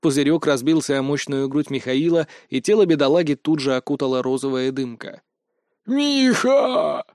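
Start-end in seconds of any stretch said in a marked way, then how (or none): 5.8-7.0 high cry of alarm; shout. Acted. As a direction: yell to a fallen friend. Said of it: "закричал один из его подпевал".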